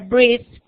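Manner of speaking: breathed with a final D; model word. Shown as a demonstration. Teacher shows breathed to the students. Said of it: "Voy a pronunciar este".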